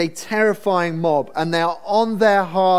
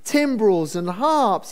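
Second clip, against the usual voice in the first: oily; 5 semitones higher than usual. Acted. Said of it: "I wanna say this speech is oily".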